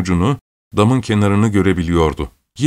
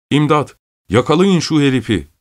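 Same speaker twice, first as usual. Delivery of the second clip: mild, higher-pitched shout for help; understated narrated yell, pitched up; cry for help; 6 semitones higher than usual. Acted. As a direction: call for help with restrained alarm. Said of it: "diye bağırarak".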